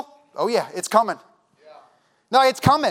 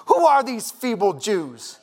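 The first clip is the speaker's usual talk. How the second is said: mocking enemies; 2 semitones lower, slower than usual. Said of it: "they start mocking and ridiculing".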